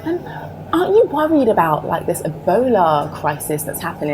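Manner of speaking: high, quizzing voice of people back home; imitating curious people. Imitating people asking about the move, quizzing. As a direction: mimic the nosy questioners. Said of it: "people were asking me".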